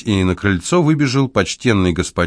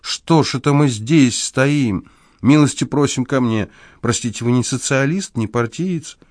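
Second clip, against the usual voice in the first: put-on old man bustles anxiously; an agitated host hurrying the guest inside; flustered; 6 semitones higher than usual. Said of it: "заволновался старик".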